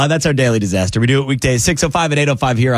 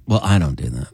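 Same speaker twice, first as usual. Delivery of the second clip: much lower, softer mock-superior put-down; lower, quieter mock of a smug vegetarian; snooty vegan mock; 12 semitones lower, 4 dB quieter than usual. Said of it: "a vegan or a vegetarian will then comment".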